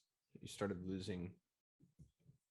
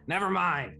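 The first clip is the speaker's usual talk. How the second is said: quick never mind; 7 semitones higher, 6 dB louder than usual. Acted. Gnome backing off, GM voice.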